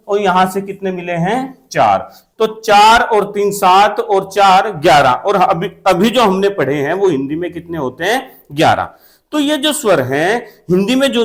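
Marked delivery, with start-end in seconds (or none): 1.7-2.1 low answer. Shown as a demonstration. Teacher answers own question. 8.5-8.9 low answer. Shown as a demonstration. Teacher answers own question.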